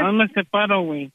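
put-on slurring like a drunk. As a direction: fake being drunk on the phone. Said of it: "lo que dijiste que estabas borracho".

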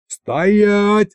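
high, sharp command shout. A narrator's reading. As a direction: yell it to stop everyone. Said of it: "заорал я".

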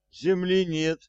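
high panicked yell. A narrator's reading. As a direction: cry it out in alarm. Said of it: "завопил он".

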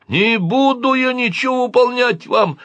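put-on high-pitched boyish refusal; defiant yell. A narrator's reading. Boy refuses the alien's orders, defiant yell. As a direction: shout down an order. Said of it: "снова крикнул я".

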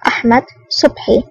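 mildly resigned, level dropping; understated defeated tone; feigned resignation. A narrator's reading. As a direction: give up the name as if surrendering. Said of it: "تصوير الاستسلام على وجهه ولهجته".

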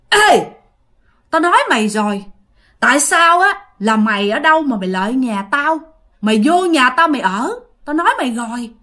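menacing Northern Vietnamese accent, a hint of a ghost's voice. Ghost woman scolding the girl in her room, in a Northern Vietnamese accent. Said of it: "giọng Bắc nha".

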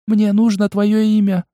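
put-on high, insistent little girl voice; demanding. A narrator's reading. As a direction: demand it, small but firm. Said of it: "В тонком голоске прозвучало требование".

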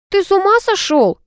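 high, sharp outraged cry; angry. A narrator's reading. Girl yells at boy who sneezed on her sleeve. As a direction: snap at him in disgust. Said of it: "рассердилась я".

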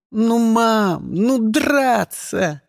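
put-on high, slow whiny kid; childish whine. A narrator's reading. Child whining to mother. (капризный детский голос)

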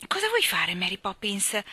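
put-on boy who can't hold back; Michael calling out to Mary Poppins; cry out. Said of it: "gridò Michael".

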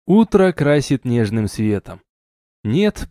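ordinary delivery, nothing marked

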